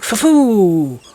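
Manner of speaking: high, loud whoop for the cards; two cards whooping as they team up; voicing the cards. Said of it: "these two went".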